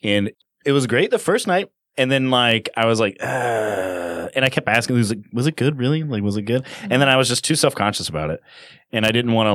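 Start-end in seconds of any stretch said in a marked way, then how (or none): 3.2-4.3 long, drawn-out sighing "uh"; reluctant groan. Retold or imitated. Player recalling doubts about the accent, reluctant groan. Retelling his growing reluctance.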